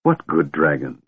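slow, high disbelieving question; stunned he never heard of them; slowed-down amazement; astounded. A narrator's reading.

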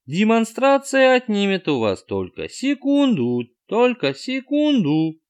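high, slow, repeating robot voice; skipping record. A narrator's reading. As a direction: loop it like a stuck record. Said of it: "заезженную пластинку".

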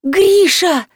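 high screeching call of her husband's name; shrill shout. A narrator's reading. Woman shrieking for her husband in the house. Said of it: "визгливо закричала".

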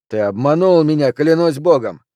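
outraged outburst; angry accusation. Acted. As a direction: accuse him with full indignation. Furious player accuses Flint of cheating.

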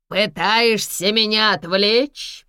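hissed. A narrator's reading. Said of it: "прошипел мессир".

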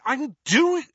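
put-on teen repeating his shout until he sees it's Harry. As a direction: insist again, then stop short. Ron repeats, cut off.

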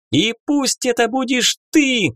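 high excited fairy shout; a fairy cheering at the top of her voice; excited yell. Acted. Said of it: "заорала фея". (восторженный крик феи)

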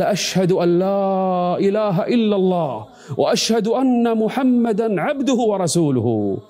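slow, high solemn declaration. Retold or imitated. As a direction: proclaim it slowly for everyone to hear. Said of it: "ثم رفع عمر صوته".

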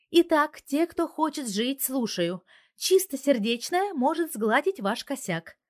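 loud, slow, commanding threat; menacing boss. A narrator's reading. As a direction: speak like a feared crime boss. Husband threatening the hackers. (грозно, властно)

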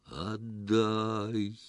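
long eerie «Отдай» echoing; distant ghostly demand; rattling in the windows. Acted. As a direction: make the glass rattle with it. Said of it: "задребезжало в стёклах".

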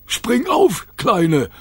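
high, urgent command; urgent call. A narrator's reading. Rover urging Kayla onto his back, high urgent call. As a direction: call out for her to hop on.

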